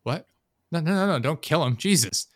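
rising, alarmed pleading quote; frantic plea. Retold or imitated. Retelling a TV scene to a co-host, mock frantic pleading. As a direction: beg him not to kill, half-acted.

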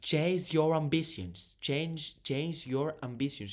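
put-on English accent, slow and drawn out; mock English accent. Mocking a coach from Serres, affected English accent. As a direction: imitate an affected English accent, stretching each word. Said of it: "μου μιλάς με προφορά".

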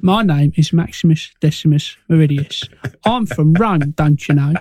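a hint of joke Cockney; mock Cockney accent. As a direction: play the Roman hero as a Cockney. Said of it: "got a Cockney Spanish dude".

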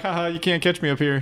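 a lightly voiced sing-song taunt from up high; mocking taunt. Character taunting the killer from the hill, lightly mocking. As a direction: tease the chaser like a cocky kid. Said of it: "You're like".

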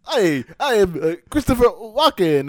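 high, loud halting celebrity impression; Christopher Walken impression. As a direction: pause mid-line, then land the name. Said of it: "Johnny Townsend doing Christopher Walken".

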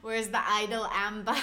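goofy attempt at a Boston accent; mock Boston voice; bad Boston accent. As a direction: put on a rough Boston accent, Rs dropped. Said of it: "my worst Boston accent".

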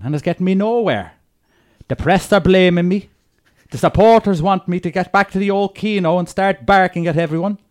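put-on a light, dodgy Irish accent read as Roy Keane; lightly done Irish accent, grumbling footballer writing to Santa; Roy Keane impression. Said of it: "Pierce Brosnan wants his dodgy Irish accent".

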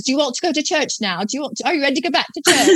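light mock British accent, quick and amused; playful British accent imitation, mocking the husband's churchgoing question; imitating British husband. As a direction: put on the husband's British accent, laughing through it. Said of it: "I always imitate his accent".

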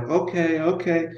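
imitating a nervous man, softly; quiet, mildly jittery mock okays; nervous wreck. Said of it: "he's a nervous wreck".

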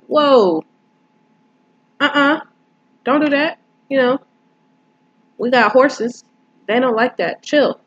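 high-pitched, retold warning to calm down; alarmed telling-off. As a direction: imitate someone shutting down a sudden outburst. Voices OJ stopping a screamer.

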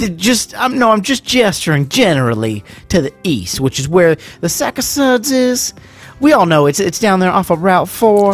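put-on Southern accent, playful courtroom bluster; mock Southern lawyer. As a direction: explain it as a folksy Southern lawyer. Keeps up Southern lawyer act.

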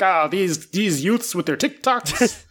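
put-on grumpy old man, laughing through it; back in my day rant. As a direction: ham up a cranky old-timer. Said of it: "he's like".

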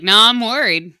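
insistent Sue. Retold or imitated. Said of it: "And she's like".

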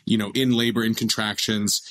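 ordinary delivery

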